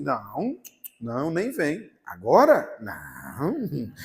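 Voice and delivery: swooping, drawn-out refusal; mock sulky refusal. Preacher replaying his refusal of God's embrace, sulky. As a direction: refuse like someone sulking, stretching each no.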